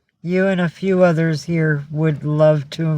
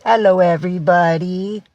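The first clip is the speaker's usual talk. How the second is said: lightly voiced cat, a bit louder; voicing the cat; 3 semitones higher, 3 dB louder than usual. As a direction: greet everyone for your pet. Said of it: "He says".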